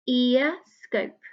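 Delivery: "Ear scope" as two separate counted beats; syllable counting. Shown as a demonstration. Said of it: "How many syllables?".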